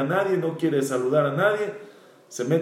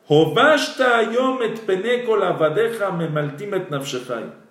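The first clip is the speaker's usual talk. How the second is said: higher, pointed reproach of the king; stern rebuke; 3 semitones higher than usual. Retold or imitated. Joab rebuking grieving King David, stern reproach. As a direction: scold him for shaming his loyal men. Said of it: "y le dice así".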